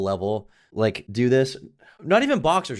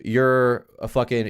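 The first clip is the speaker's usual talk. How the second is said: mock angry insult; 3 semitones higher, 4 dB louder, slower than usual. Guy at the bar insults him, mildly mock-angry. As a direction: imitate a mad guy at a bar. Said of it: "He gets mad".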